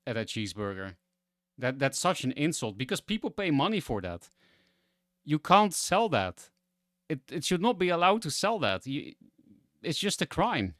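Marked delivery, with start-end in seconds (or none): 1.6-10.7 real indignation, pitch climbing without shouting; indignant. Real, not acted. Streamer outraged that people pay money for that food, indignant. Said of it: "I was actually mad".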